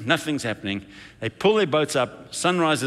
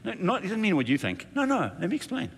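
eager correction; 7 semitones higher, 3 dB quieter than usual. Acted. Pastor acts out urgently correcting someone.

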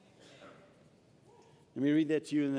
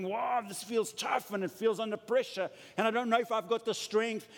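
imitating a worn-down believer; 7 semitones higher than usual. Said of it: "and we're going".

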